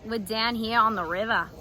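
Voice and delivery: playful attempt at an Australian accent; mock Australian lilt. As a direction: put on a light Aussie accent. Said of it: "How was my Australian accent".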